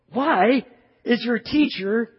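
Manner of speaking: sarcastic Pharisee. Retold or imitated. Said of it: "Might even sound like a snake".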